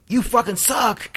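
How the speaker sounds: high, slow drawn-out jeer; mock heckler yell. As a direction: stretch it out like a heckler across a lot. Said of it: "Someone just screamed".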